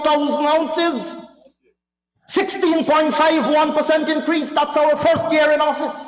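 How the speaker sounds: lightly mocking a rival's proud recital; mock triumphant. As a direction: ham up a school-play boast. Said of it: "paused for dramatic effect like they do at, in school skits".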